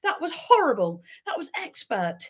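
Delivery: comically offended complaint; mock outrage. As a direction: retell your huffy outburst. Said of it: "I was getting angry. I was like".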